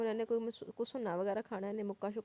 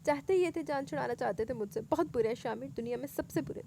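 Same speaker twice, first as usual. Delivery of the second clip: helpless crying cry; 3 semitones higher, 4 dB louder than usual. Acted. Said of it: "वो रोते हुए बेबसी से चीखी".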